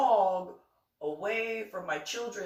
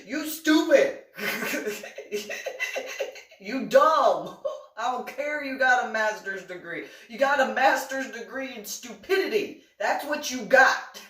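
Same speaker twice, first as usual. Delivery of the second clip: loud, scornful jabs; mock insult; 4 semitones higher, 5 dB louder than usual. Teller insulting the sister-in-law, loud and scornful. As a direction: hurl the insults like a playground bully.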